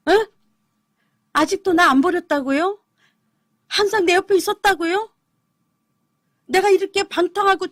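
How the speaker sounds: can't believe she was never abandoned; disbelief. Retold or imitated. Stunned reply to God's voice.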